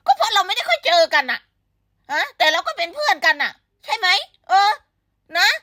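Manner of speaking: lively. Real, not acted. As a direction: burst in with the answer. Excited punchline explaining friendship.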